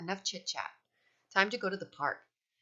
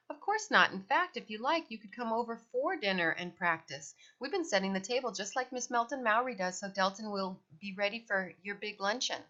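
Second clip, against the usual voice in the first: cheerful mom; 3 semitones higher than usual. Acted. Mrs Bean's cheerful invitation.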